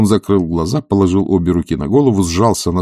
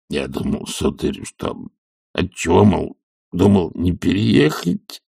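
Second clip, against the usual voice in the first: trembling anxious voice; slower than usual. Acted. Zakhar answering his master, anxious and meek. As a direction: speak timidly, worried. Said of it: "дрожащим от душевной тревоги голосом".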